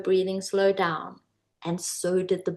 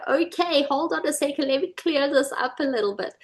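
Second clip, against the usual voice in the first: higher, startled but steadying; mock alarm; 6 semitones higher than usual. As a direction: pull yourself together, pitched up. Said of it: "I was like".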